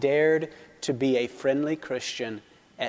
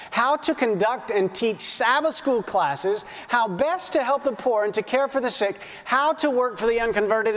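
higher-pitched, emphatic reading to a congregation; reading aloud; 5 semitones higher than usual. Acted. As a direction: read the passage out to the church. Reads a book passage aloud.

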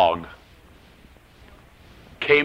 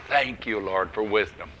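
soft, hushed thanks to God; low, reverent murmur; quiet prayer; 4 semitones lower, 7 dB quieter than usual. Retold or imitated. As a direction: pray it softly, voice sinking. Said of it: "So quietly I said".

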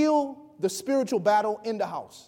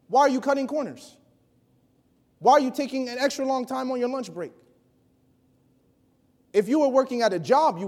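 higher, pressing preacher's questions; rebuking challenge; 4 semitones higher than usual. Real, not acted. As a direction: call them out on it.

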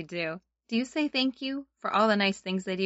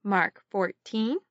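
sunday school teacher; slower than usual. Shown as a demonstration. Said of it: "let's try it together".

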